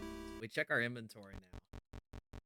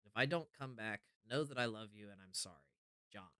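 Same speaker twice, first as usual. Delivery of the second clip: earnest, hushed letter reading. Acted. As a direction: read the note like a confession. Reads a note from John aloud.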